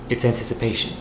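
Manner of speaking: rhythmic slam-poetry recital; spoken-word poem. Acted. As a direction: perform the verse, leaning on the rhymes.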